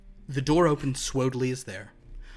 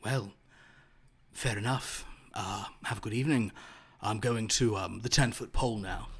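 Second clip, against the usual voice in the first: 3 semitones lower than usual. Acted.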